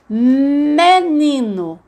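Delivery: MENINO hugely stretched, high with a long hum on the M; word sounded out. Shown as a demonstration. Teacher testing menino for its first sound, stretched out. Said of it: "falando o som".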